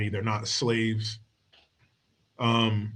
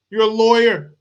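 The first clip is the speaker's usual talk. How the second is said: incredulous; 8 semitones higher, 8 dB louder than usual. Real, not acted. Incredulous rant at her.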